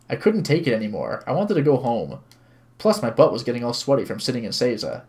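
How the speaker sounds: even, measured narrating voice; story narration. A narrator's reading. Streamer reads visual novel to viewers, story narration. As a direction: read the story aloud clearly.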